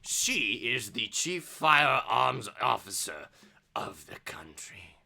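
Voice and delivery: measured officer, slowing to a hushed finish; formal officer. Acted. Officer explains who Auntie Mallory is, measured.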